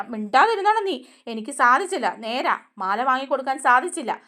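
mock-angry retort at the mother, then giving in; angry snap. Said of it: "സച്ചിക്ക് ദേഷ്യം വരിക". (ദേഷ്യത്തോടെ പൊട്ടിത്തെറിച്ച്, പിന്നെ താഴുന്നു)

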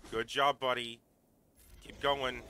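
shouting encouragement; loud cheering. Real, not acted. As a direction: cheer your fighter on loudly. Cheering on his creature in battle.

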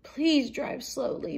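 storybook mouse pleading; begging. A narrator's reading. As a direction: implore the driver, drawing out the words. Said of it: "begged Annie".

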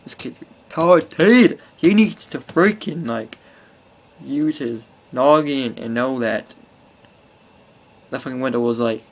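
mildly exasperated, spelling out his stupidity; mock outraged rant. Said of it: "I'm like".

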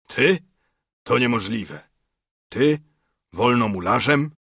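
disbelieving questions, jumping up in pitch; rising, incredulous query. A narrator's reading. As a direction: question it in acted astonishment. Acted disbelief at friend's claim.

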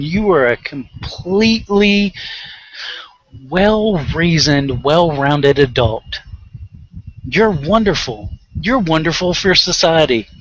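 slow, drawn-out mock praise; sarcastic praise. Praising a violent adult, slow sarcasm. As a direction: lay the sarcasm on slowly.

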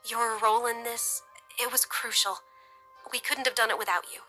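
grateful. A narrator's reading. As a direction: say it softly, full of gratitude. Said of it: "her voice tinged with gratitude".

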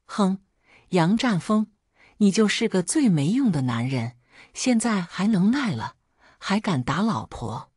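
angry shout. Acted. Wife yelling at husband after he hit her, angry shout. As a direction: hurl the insult at him. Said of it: "周周喊".

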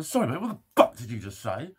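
loud, sharp challenge to a stranger; retelling a loud challenge to the cyclist; confronting shout. Retold or imitated. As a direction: call him out loudly. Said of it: "So I turned around and go".

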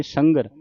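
ਸੰਗਰ with nasal then a clear g; g sound pronounced. Shown as a demonstration. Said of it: "ਘੱਗੇ ਦੀ ਆਵਾਜ਼ ਉਚਾਰਨ ਕਰਨੀ". (ਸੰਗਰ, ਘੱਗੇ ਦੀ ਆਵਾਜ਼ ਨਾਲ)

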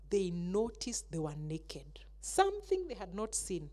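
hushed storyteller's whisper. A narrator's reading. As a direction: whisper it like a secret to the kids. Dramatic reveal to children.

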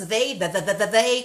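"They" with the tongue between the teeth; th drill. Shown as a demonstration. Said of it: "Coloca aí no meio da língua".

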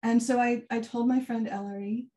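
ordinary talk, nothing marked

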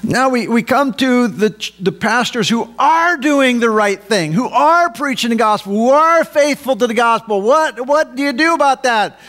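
high, insistent pulpit voice; forceful preaching. Real, not acted. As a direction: press the question on the congregation. Preaches about faithful pastors.

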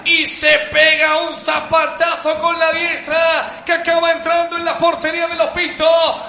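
high, slow, shouted replay; excited goal call. Real, not acted. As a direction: keep the goal fever high.

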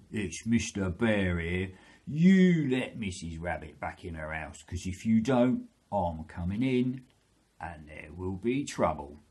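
lightly voiced threatening bear; Mister Bear. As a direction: warn the fox as a storybook bear. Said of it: "he knocks on the door and he said".

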